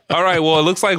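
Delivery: giggling through the wrap-up; laughing. Real, not acted. Host laughing at a guest done in by a chip.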